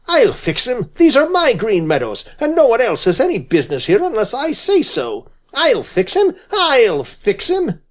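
high, furious chattering threats; angry scolding. Acted. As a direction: scold and rage at the intruder. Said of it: "he chattered and scolded".

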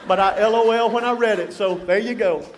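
real laughter. Real, not acted. Laughing at his own joke.

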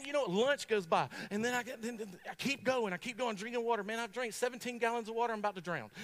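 usual speaking voice

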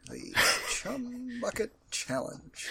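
slow, disbelieving repeat; incredulous. Real, not acted. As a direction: say it like you can't believe it. Incredulous repeat of odd phrase.

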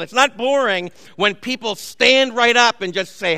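normal talking voice

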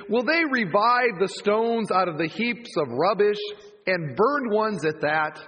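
deliberate scripture reading. Acted. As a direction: read the passage with weight. Reads scripture aloud.

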